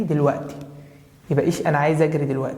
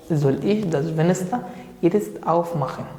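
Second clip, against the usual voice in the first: slow dictation; much slower than usual. Shown as a demonstration. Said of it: "teacher models the answer".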